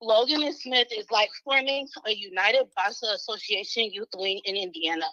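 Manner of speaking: breathless, catching air between phrases; out of breath. Real, not acted. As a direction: read it winded. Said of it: "I'm out of breath".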